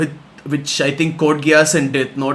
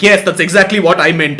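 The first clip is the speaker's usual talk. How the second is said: smug Lelouch. Pretend. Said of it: "He's like".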